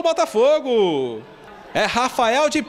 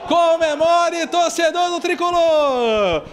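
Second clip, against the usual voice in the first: excited call; 5 semitones higher than usual. Real, not acted. Celebrating the qualification.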